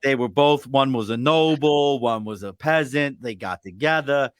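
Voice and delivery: mock audiobook read. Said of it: "I need you to read it, Bob".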